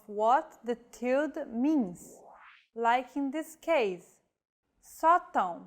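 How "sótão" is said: "sótão" stressed on open first O, nasal end; stress on first syllable. Shown as a demonstration. Teacher showing acute with tilde, first syllable stressed. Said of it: "The stressed vowel is marked by an acute".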